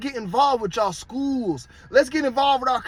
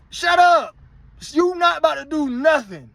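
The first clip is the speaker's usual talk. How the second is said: shouted shut up; 7 semitones higher than usual. Real, not acted. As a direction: yell it to shut them down. Scolding viewers who pay rent.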